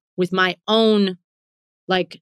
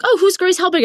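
high, louder curious question; mock curiosity; 11 semitones higher, 5 dB louder, faster than usual. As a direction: pitch it up, acting out curiosity. Acting out her past curious reaction.

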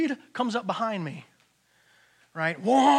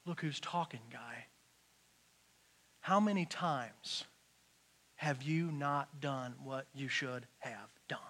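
God's rebuke; 6 semitones lower, 10 dB quieter than usual. Retold or imitated. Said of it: "the Lord stops me in my track and says".

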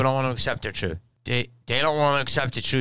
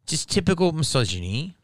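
higher-pitched mock English accent; retried English accent; 7 semitones higher than usual. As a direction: imitate an Englishwoman with a higher, lilting complaint. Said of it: "that's more Aussie".

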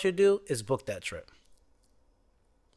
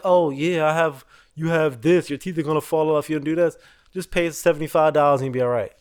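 fast, slick salesman doctor; mock doctor; 3 dB louder than usual. Imitating a doctor pushing pills on patients. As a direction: rattle it off like a pushy salesman.

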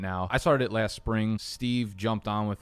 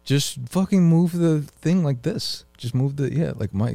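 higher, louder, slow exasperated order; loud sharp voice; 6 semitones higher, 5 dB louder, slower than usual. Real, not acted. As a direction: bark it out, fed up. Exasperated order to move mic.

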